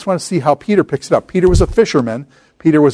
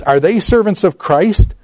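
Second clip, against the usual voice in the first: a slow, higher-pitched sarcastic question; sarcastic, jaded; 6 semitones higher than usual. Retold or imitated. Paul mocking his rivals, sarcastic and jaded. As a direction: let a jaded sneer hang on the question. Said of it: "in a kind of a sarcastic, jaded kind of way".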